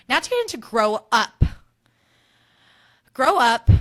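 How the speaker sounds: host calling out the segment name; segment title shout. Acted. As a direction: belt out the segment name like a show jingle.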